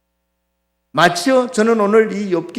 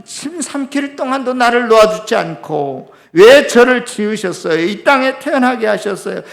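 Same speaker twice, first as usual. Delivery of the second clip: loud, high-pitched lament to God; 5 semitones higher, 5 dB louder than usual. Acted. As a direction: cry out in bitter protest as Job. 욥의 원망을 대신 말함. (원망 섞인 높은 목소리로 따지듯)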